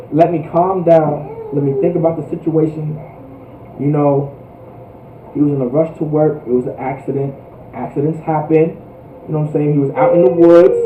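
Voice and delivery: low, softened thinking-it-over voice; calm reasoning. Acted. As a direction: talk yourself down, quietly and evenly. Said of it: "you're calm".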